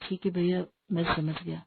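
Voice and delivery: small, deflated acknowledgement; chastened. Acted. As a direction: give in quietly after a telling-off. Scolded younger brother gives in.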